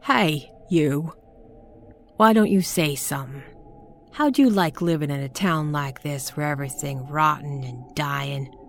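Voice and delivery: put-on shrill, frantic old crone yelling; screaming old woman. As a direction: scream it at the listener, half mad. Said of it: "Zelda was really screaming now".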